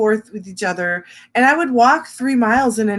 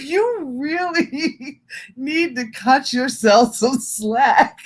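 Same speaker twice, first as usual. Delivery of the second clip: therapist voice; 5 semitones higher, much slower than usual. Retold or imitated. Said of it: "She's like".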